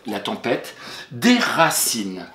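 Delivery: La tempête déracine said slowly, word by word; slow dictation. Shown as a demonstration. Teacher dictating the sentence slowly to her pupil.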